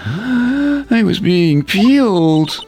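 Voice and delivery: high, nervous rookie voice with a gasp; jittery officer. Acted. Officer telling the detective his peeled-apple dream, high and nervous. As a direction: spill the nightmare nervously.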